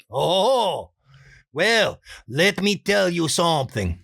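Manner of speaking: Juan voice. Pretend. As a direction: lean in to share a secret. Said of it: "Juan's next line".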